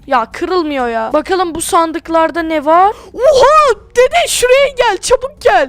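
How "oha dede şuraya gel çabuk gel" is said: excited discovery. Acted. Grandson finds treasure chest.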